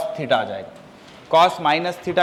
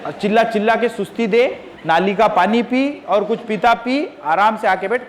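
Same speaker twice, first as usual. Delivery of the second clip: raised-pitch sarcastic telling-off; scolding; 4 semitones higher than usual. Real, not acted. Teacher to a disruptive pupil in class, scolding.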